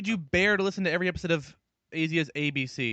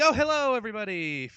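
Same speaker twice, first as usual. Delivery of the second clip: exaggerated, higher-pitched hello that falls away; mock podcast greeting; 4 semitones higher than usual. Co-host mimicking their show's transition, mock greeting. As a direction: imitate an overeager hello to listeners. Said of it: "It's like our transition".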